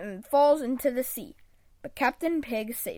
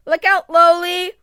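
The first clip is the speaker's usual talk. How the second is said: loud, high shout of alarm; frantic yell; urgent warning; 5 semitones higher, 12 dB louder than usual. Acted. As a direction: call out to save a friend. Warning as Grunkle charges.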